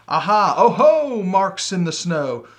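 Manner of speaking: loud, high, thrilled cry of discovery; excited discovery. Acted. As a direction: shout it out like you've found a clue. Gruffalo's child discovering tracks.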